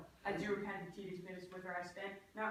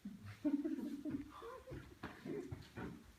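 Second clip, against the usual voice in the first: mischievous giggle; 10 semitones higher, 3 dB quieter than usual. Acted. Puck laughs at mischief.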